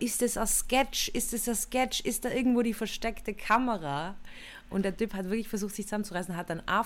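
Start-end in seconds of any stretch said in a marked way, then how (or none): 0.0-4.1 mock call out. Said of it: "und ruf halt".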